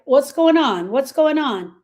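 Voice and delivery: mock concerned. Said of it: "And I'm like".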